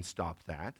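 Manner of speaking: "Stop that" low, soft, trailing up; a toothless "Stop that"; dad's quiet warning the kids ignore; limp quiet stop that. Retold or imitated. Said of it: "I didn't mean".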